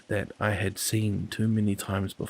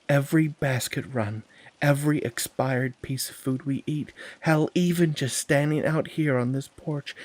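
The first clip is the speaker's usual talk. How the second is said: arguing; 5 semitones higher, 3 dB louder than usual. Acted. Andy argues, rising.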